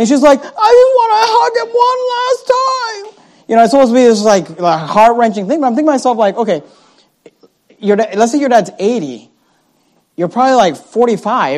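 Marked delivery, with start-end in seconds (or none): 0.4-3.2 put-on wailing cry, very high-pitched. Retelling an actress on the radio about her dying father: imitating someone wailing.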